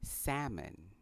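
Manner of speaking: "salmon" as SAM-un; silent L. Shown as a demonstration. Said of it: "So it is pronounced".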